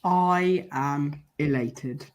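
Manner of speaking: slow, drawn-out smug boast. Acted. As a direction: say it smugly, stretching each word. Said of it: "that was me being smug".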